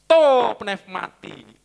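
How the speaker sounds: "To pneumati" spoken very slowly, every syllable clear; slow Greek recitation. Shown as a demonstration. Pastor teaching the Greek phrase to the congregation, very slow. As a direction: spell out To pneumati slowly for learners. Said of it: "repeating Greek phrase slowly".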